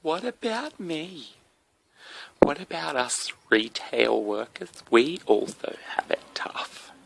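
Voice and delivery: a hammed-up complaining retail worker, slow; whiny retail worker. Mocking a retail worker's email to the host, slow whine. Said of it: "a fucking retail worker".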